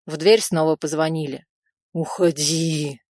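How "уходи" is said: slow, pleading inner plea; pleading to himself. A narrator's reading. Rizo silently begging the woman to go away, slow pleading. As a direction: beg her silently, drawn out slow. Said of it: "молил он про себя".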